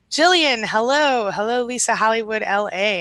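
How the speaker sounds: bright, loud, high hello to a friend; greeting a regular who just joined the chat, excitedly. Real, not acted. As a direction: call out her name with real delight.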